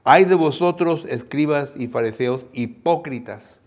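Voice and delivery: loud high opening, easing off; a fading echo of the woe; rebuking woe. Acted. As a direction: cry out the "Ay" then press on. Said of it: "Jesús aquí les está hablando".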